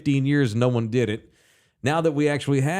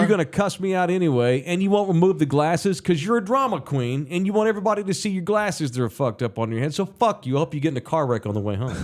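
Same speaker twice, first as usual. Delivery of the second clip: mock rant; 6 semitones higher, faster than usual. Mock ranting at bingo lady.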